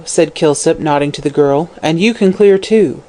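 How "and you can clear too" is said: sharp. Acted. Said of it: "he added sharply".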